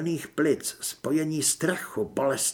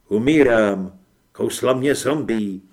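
low, heavy voice of a dying man; dying man's voice; 4 semitones lower, 7 dB louder than usual. Acted. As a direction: push the words out as if fading. Umírající postava mluví. (nízký hlas umírajícího)

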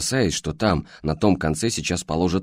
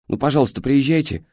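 begging, pitch raised high; pleading; 6 semitones higher than usual. A narrator's reading. Aunt begging the dispatcher to send help, pleading high. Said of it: "взмолилась она".

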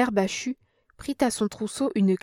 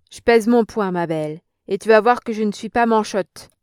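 threat; 6 dB louder than usual. Acted. Old woman threatens Germaine.

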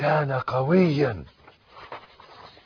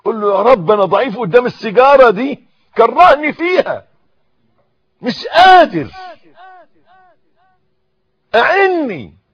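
high, loud cry to God; loud pleading prayer; 13 semitones higher, 13 dB louder than usual. Shown as a demonstration. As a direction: plead out loud as the worshipper would. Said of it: "قل لربنا". (دعاء بصوت عالٍ متضرع)

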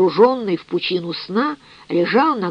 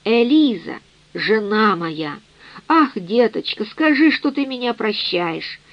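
plain reading voice

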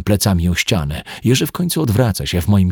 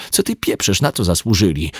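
outraged. Acted. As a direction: fling it back at him in disbelief. Outraged reaction to his suggestion. (oburzona, wysokim głosem)

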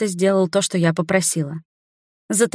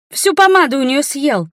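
high, loud indignant cry; mock scolding; 8 semitones higher, 4 dB louder than usual. A narrator's reading. Friend scolding brother for eating the lipstick, high loud mock outrage. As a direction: scold him with playful outrage.

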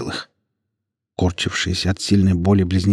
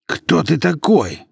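retreating fearful question; 9 semitones higher, slower than usual. A narrator's reading. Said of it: "вновь повторил мужчина, отступая".

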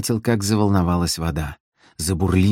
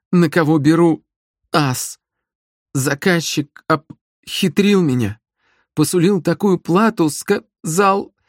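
much higher, swallowing syllables in fear; frightened babbling; 10 semitones higher than usual. Acted. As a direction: blurt the excuse out in terror. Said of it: "проговорила она, глотая слоги".

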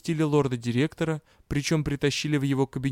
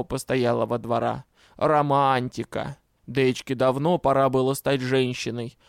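imitating lady Oris. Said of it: "пересказывал Жловис знатно, даже интонации".

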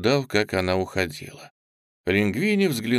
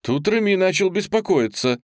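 ordinary delivery, nothing marked

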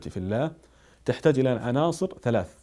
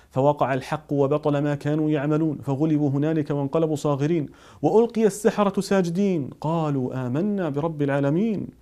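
raised, chanted recitation of scripture; solemn recited verses; Quran recitation; 3 semitones higher, 3 dB louder than usual. Acted. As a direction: lift the verses into a measured recital.

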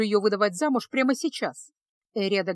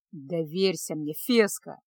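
умоляюще; 5 semitones lower, slower than usual. Acted. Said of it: "Голос Кайла звучал умоляюще".

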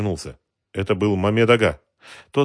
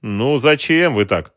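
slow, higher smiling reproach; 6 semitones higher, 7 dB louder, slower than usual. A narrator's reading. Racketeer smiles at the shopkeeper, slow and smiling. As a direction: soothe him with a smile. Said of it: "улыбнулся мужчина".

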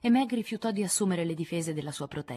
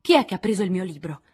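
domanda affannata e concitata; senza fiato; 3 semitones higher, 8 dB louder than usual. Acted. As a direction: irrompe chiedendo di corsa. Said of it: "chiese senza fiato". (Jo senza fiato chiede alle sorelle del libro, concitata)

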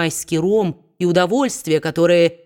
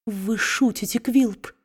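tearful babble; 4 semitones higher, 3 dB quieter, slower than usual. A narrator's reading. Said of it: "сквозь слёзы пролепетала его жена".

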